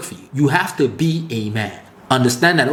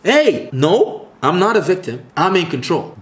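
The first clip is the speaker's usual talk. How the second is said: firm reply. Shown as a demonstration. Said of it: "That should be your response".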